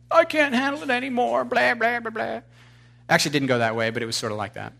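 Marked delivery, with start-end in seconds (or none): 0.1-2.4 high, mock-desperate whine; a touch of hammed-up despair; whiny despair. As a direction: act out falling apart on the phone. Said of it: "called Dennis and was like".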